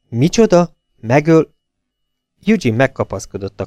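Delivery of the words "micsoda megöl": high, sharp gasp of shock; stunned, cutting off mid-word; shocked disbelief. A narrator's reading. Eugene hears his lover killed, shocked.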